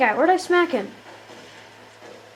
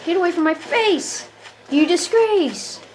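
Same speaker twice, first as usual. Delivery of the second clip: mock outrage; 4 semitones higher than usual. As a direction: scold the foe with playful indignation. Taunting enemies during game.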